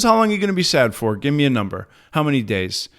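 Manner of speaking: high, fast, insistent questioning; pushy sponsor. Retold or imitated. Sponsor voiced, pushing for number.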